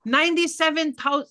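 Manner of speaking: nearly shouting the figure in anger; yelling. Real, not acted. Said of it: "sorry, I'm yelling".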